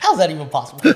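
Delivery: exclaiming. Real, not acted. Mock outrage over production value.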